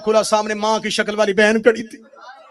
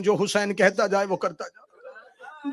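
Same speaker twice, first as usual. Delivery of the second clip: soft command; 6 dB quieter than usual. Acted. Repeated command, soft take.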